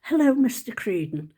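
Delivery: lightly attempted posh accent. Former pupil to headmaster at reunion, amateur posh voice. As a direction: greet him in a half-managed posh voice. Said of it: "not that I can do a posh voice".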